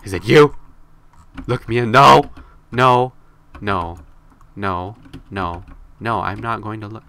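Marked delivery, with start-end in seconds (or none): 1.9-3.1 mock yell refusal. Refusing to look at player.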